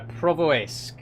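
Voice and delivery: Provoisk with no M, pro-vo-isk; Provoisk, starting "pro" and ending "isk"; suggested pronunciation. Shown as a demonstration. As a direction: read out Provoisk without an M sound. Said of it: "is the pronunciation".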